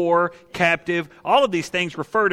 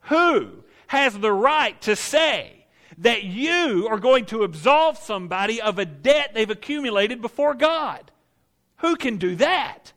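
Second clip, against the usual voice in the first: grumbling onlookers. Acted. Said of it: "the grumbling of everybody around that says".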